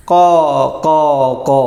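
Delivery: long, separated clucking calls; teacher's demonstration of chicken sound; imitated chicken call. Shown as a demonstration. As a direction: mimic a chicken calling out. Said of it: "കോഴിയുടെ ശബ്ദം എങ്ങനെയാണ്?".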